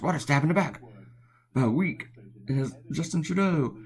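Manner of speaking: mock Trump crying betrayal; hammed-up Trump outrage; Trump impression. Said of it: "And Trump says".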